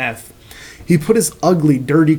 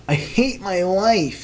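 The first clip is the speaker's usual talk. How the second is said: soft, slow, hammed-up emo sigh; slow soft mock despair; 4 semitones higher, 4 dB quieter, slower than usual. Caillou on a rooftop before jumping, soft mock despair. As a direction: moan it quietly, slowly.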